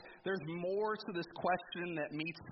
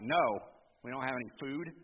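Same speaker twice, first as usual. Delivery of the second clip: deflated no; 4 semitones lower than usual. Retold or imitated. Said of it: "I can't imagine it was a real excited no".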